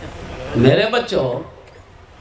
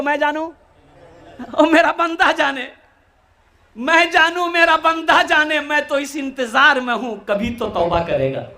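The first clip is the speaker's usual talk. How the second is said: higher, fervent repetition; raised voice; 6 semitones higher than usual. Acted. Preacher urging the crowd to repeat, raised high. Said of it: "अरे जोर से बोलो".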